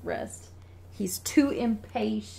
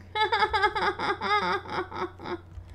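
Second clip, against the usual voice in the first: mock crying; 12 semitones higher than usual. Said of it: "That's my crying impression".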